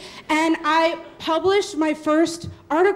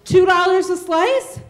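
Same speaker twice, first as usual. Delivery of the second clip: higher, louder, slow, rising like a question; tentative call; 4 semitones higher, 4 dB louder than usual. Retold or imitated. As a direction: test the price out loud. Hesitant shouted price offer.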